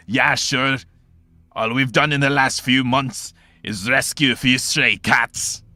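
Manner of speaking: loud, high, exasperated outburst; scoffing complaint. Acted. Short man mocking his battalion's record, scoffing complaint. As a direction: heckle the boast from the back, slowing down.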